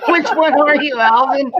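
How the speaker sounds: high chipmunk voice; squeaky high teasing; helium voice. Real, not acted. Still on helium.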